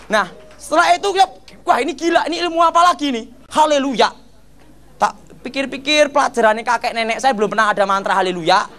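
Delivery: normal talking voice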